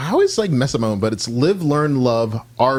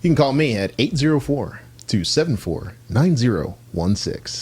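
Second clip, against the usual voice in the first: radio voice. Shown as a demonstration. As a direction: read the number like a DJ. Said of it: "That's a little radio voice for you guys".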